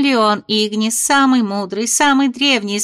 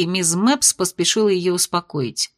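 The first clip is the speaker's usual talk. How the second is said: plain reading voice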